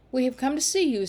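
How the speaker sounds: put-on bold boyish declaration with a lift on see; valiant. A narrator's reading. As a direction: stand up bravely to the girl. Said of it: "said Sam valiantly".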